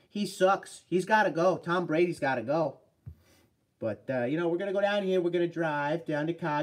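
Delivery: put-on Boston accent, lively and punchy. Shown as a demonstration. Streamer doing a requested bit for a viewer, Boston accent. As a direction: talk like a Bostonian griping about sports. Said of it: "Omni wants me to do the Boston accent".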